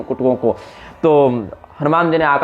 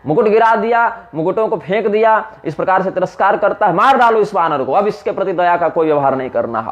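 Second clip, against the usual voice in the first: raised, higher-pitched angry command; Ravana's anger; 4 semitones higher than usual. Acted. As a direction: rage at the insulting monkey. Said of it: "Ravan को बड़ा क्रोध आया".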